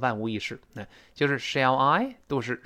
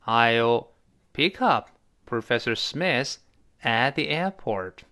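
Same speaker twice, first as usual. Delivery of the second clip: slow model sentence; slower than usual. Shown as a demonstration. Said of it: "再来一遍".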